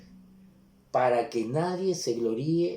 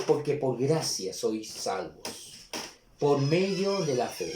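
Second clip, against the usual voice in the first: slow, quieter, deliberate reread of "Porque por gracia sois salvos"; slow, softer reread. Shown as a demonstration. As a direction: let the verse sink in gently and slowly. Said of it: "una vez más dice". (relectura lenta y más suave)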